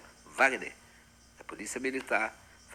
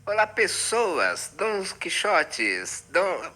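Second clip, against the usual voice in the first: knight's greeting; 6 semitones higher, 3 dB louder, much slower than usual. Acted. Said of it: "eu tô encarnado em Dom Quixote".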